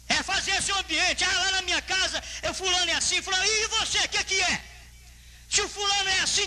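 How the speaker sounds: high, sustained, urgent exhortation; preaching at full force. Real, not acted. Preacher urging each to create an environment, full-force preaching. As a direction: press the congregation hard from the pulpit.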